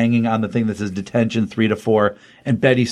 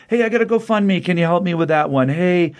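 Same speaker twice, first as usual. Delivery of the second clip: much higher, eager classmates begging favors; pushy students; 4 semitones higher than usual. Retold or imitated. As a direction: pester her like needy kids at a locker. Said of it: "everybody is coming up to her going".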